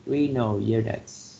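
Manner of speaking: renal units with RE stressed in renal; stress first syllable. Shown as a demonstration. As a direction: model renal as RE-nal. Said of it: "stress on the first syllable with renal".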